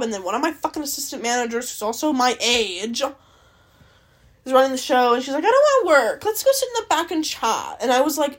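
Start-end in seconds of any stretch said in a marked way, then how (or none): 5.4-7.8 high, loud imitation of a coworker; mock slacker manager. Assistant manager begging off work to chat, mock whiny plea. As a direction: imitate a manager who would rather chat.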